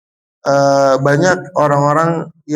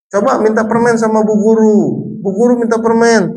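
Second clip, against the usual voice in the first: lightly voiced sweet teacher, higher; kindergarten teacher voice; 6 semitones higher than usual. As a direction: talk sweetly to small children. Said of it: "seorang guru mengatakan gini kepada anak-anak".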